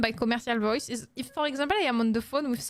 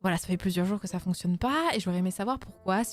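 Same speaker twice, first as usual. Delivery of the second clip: lower, polite customer-on-the-phone French; commercial voice; 5 semitones lower, faster than usual. Shown as a demonstration. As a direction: put on a formal French phone voice for the internet operator. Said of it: "I'm gonna do my commercial voice".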